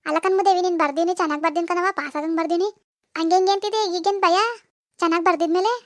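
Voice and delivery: lightly voiced mother ribbing her daughter; teasing mother. Mother questions the fear. (ಮಗಳನ್ನು ಹಾಸ್ಯ ಮಾಡುವ ತಾಯಿಯ ಸ್ವಲ್ಪ ಗಟ್ಟಿ ಧ್ವನಿ)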